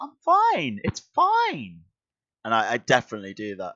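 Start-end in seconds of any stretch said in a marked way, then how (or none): 0.0-1.8 very high-pitched, swooping voice. Showing the voice a friend says the speaker uses when lying: high-pitched voice. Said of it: "I do a high pitched voice, like".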